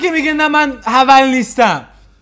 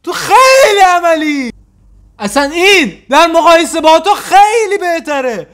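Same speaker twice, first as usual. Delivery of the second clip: mock outrage; 4 semitones higher than usual. Yelling at the guy in the clip, hammed-up fury. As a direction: rant like you're deeply wounded.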